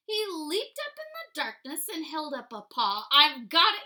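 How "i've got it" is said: loud excited mouse discovery. Acted. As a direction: burst out with the idea. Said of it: "he said".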